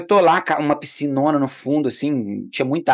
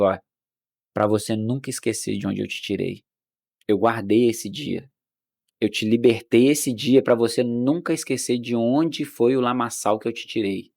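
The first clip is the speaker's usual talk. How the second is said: voice of the Holy Spirit; 3 semitones lower, 5 dB quieter than usual. Retold or imitated. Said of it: "o Espírito Santo falou assim comigo".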